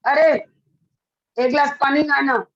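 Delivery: curt, commanding request for water; bossy order. Shown as a demonstration. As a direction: order it like talking down to a servant. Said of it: "उसको अच्छा नहीं लगेगा". (रूखा हुक्म देता लहजा)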